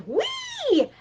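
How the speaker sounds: very high squealing wee; shrill giddy wee. Retold or imitated. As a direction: squeal like a kid on a ride. Over-excited energy shown.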